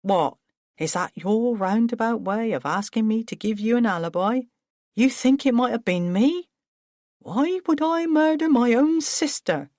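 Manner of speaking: Paul, furious and wounded; indignant outburst. Acted. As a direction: fling the accusation back. Paul outraged at accusation.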